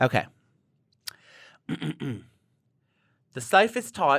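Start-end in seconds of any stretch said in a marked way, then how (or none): 1.7-4.2 accent that comes out Australian. Asked to read a health recommendation in a British accent, in an Australian-sounding accent. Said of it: "That's Australian".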